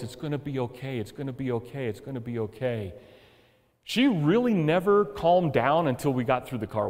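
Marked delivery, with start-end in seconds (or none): 0.0-2.9 softer, soothing reassurance to a frightened dog; comforting voice. Retold or imitated. Owner soothing his terrified dog in the car wash, softer and gentle. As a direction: hush it down like calming a scared pet. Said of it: "in that, that just comforting voice".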